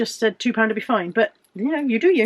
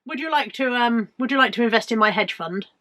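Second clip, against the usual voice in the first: posh Tory puppet voice. Pretend. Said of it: "Maria sounded extremely Tory then".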